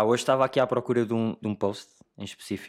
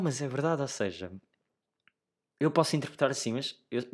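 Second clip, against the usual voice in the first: normal talking voice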